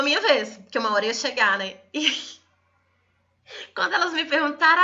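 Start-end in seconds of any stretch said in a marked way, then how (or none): 1.9-4.8 laughing on the line, pitched up; half laugh, half cry at the memory; nervous laugh. Real, not acted. Laughing and near tears recalling. (riso nervoso, quase chorando)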